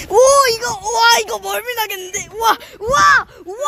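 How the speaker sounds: panicked shouting. Real, not acted. Gyro swing spinning, panicking.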